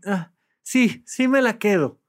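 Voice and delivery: a client faking a yes, lightly imitated; forced yes. Therapist imitating a client forcing a happy yes. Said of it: "la media sonrisa forzada y se escucha en el tono".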